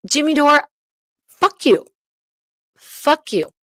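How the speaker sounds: furious yell. Real, not acted. Telling her ex-boyfriend off on her channel, furious shout. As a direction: spit it at him, real fury.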